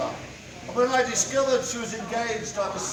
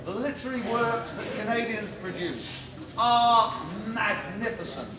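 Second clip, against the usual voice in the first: town crier. Acted. Town crier closing proclamation.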